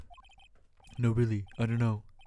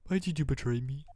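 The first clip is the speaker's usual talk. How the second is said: pleading shout; 3 semitones higher, 5 dB louder than usual. Acted. Voicing Falls pleading loudly.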